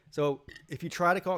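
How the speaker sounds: a burp breaking into the words. Real, not acted. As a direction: push the line out through a burp. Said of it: "excuse me, I'm burping".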